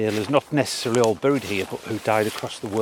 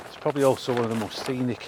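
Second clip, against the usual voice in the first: talking while short of breath; puffing between words. Real, not acted. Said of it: "Sorry, I'm out of breath".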